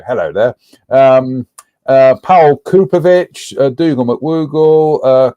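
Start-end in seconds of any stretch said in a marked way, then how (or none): 0.1-0.5 a light, slightly lower Obi-Wan style greeting; hint of a wise old Jedi saying hello; lightly imitated Alec Guinness, a gentle rise at the end. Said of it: "in kind of like Alec Guinness voice".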